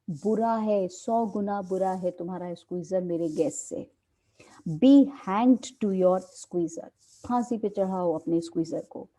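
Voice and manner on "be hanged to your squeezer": loud, slow, cursing the dog; loud angry retort. Acted. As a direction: spit the insult out slowly and loudly. Angry quarrel line in play.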